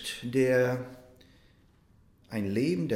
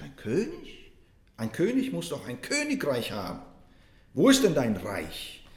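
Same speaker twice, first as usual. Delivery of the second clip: incredulous. Retold or imitated. Tauler questions the beggar-king.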